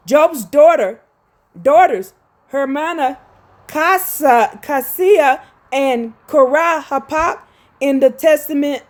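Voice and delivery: emphatic, halting read of a scholarly text; reading aloud. Real, not acted. Host reading scripture commentary to viewers, emphatic read-aloud. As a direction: read it out firmly, punching the key names.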